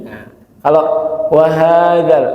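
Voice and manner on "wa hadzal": "wa hadzal" merged as if one word; run together. Shown as a demonstration. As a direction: chant "wa hadzal" joined, wa raised. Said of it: "seperti menyatu ya". ("wa hadzal" menyatu seperti satu kata)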